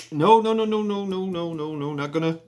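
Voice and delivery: high run of noes sliding steadily down; imitated emphatic refusal. Tam rejecting a predator in his town, acted emphatic refusal. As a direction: rattle off the noes in one descending string.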